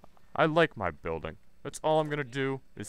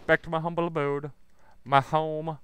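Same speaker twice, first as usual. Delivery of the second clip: high put-on voice for his home; mock grand voice; 5 semitones higher than usual. Streamer heading back to his building, mock grand voice. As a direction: sing out the humble abode up high.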